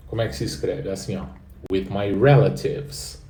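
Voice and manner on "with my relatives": slow model phrase. Shown as a demonstration. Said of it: "with my relatives quer dizer com meus parentes".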